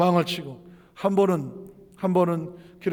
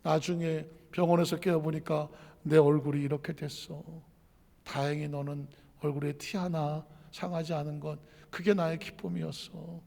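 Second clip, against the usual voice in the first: hushed confession; 2 semitones lower, 8 dB quieter than usual. Retold or imitated. 엄마가 딸에게 화재의 진실을 털어놓듯 훨씬 작고 낮게. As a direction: tell her the painful truth quietly.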